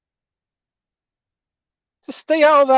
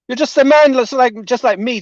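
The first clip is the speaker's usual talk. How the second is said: a touch of real heat, louder; 3 semitones higher, 4 dB louder than usual. Real, not acted. At the sheikh, heated and indignant, raising his voice. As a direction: push back, heated and indignant. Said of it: "Sorry, I'm a little bit heated".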